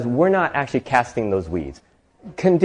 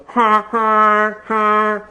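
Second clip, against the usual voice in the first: imitated car horn; 9 semitones higher, much slower than usual.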